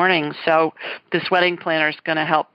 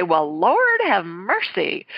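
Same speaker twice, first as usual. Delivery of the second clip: slow, drawn-out Southern exclamation; a lightly voiced Southern lady exclaiming; slow Southern "Lord have mercy"; Southern accent; slower than usual. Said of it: "and she'd say".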